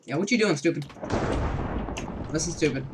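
taunting another player; mocking taunt. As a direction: tease them like a playground bully.

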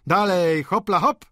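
loud, high urging cry; lively shouted goad; calling out. A narrator's reading. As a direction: egg him on like a circus call. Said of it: "zawołał malarz".

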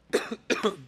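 a real cough catching the throat mid-sentence; cough, choked up; real coughing fit. Real, not acted. Host choking up mid-show, real cough. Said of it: "I'm getting choked up over here".

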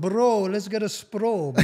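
slow, drawn-out mock bro voice; lazy Toronto bro mockery. Mocking Toronto slang.

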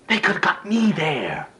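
high-pitched sarcastic tirade; indignant outburst, pitch held high; bitter outraged rant. Acted. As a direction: mimic the dismissive parents with furious scorn. Acted rant at parents' favouritism.

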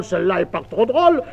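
usual speaking voice

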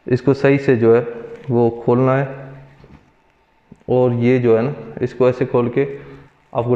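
muffled by surgical mask; speaking behind cloth covering; through a face mask. Real, not acted. Seen 4: Surgical mask covers mouth and nose until lowered near 13.6 s.

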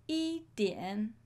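slow model answer. Shown as a demonstration. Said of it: "teacher models answer slowly".

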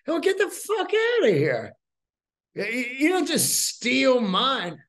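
retold explosive get out; furious shout. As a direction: run the thief off, sputtering with rage. Throwing the thief out.

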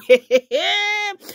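high teary laugh, nearly crying; helpless laughter. Real, not acted. Vlogger cracking up at the scandal, teary laughter. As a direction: laugh until it almost breaks into tears.

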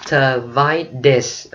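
Tivitis said very slowly, the t softened to a d, ti-VI-dis; American Tivitis sounding like ti-VI-dis; American flapped t. Shown as a demonstration. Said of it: "Mỹ nó đọc chữ tờ thành đờ ở chỗ này".

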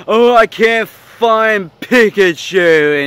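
slow, drawn-out whiny imitation; mock his moaning, stretched out slowly; lightly mocking a sulky gamer; whiny mock complaint. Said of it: "going like".

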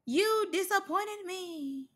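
high, slow, soft lament; wounded disappointment. Acted. Reactor telling off Biggie over fireworks, high slow disappointment. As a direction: draw it out high and hurt.

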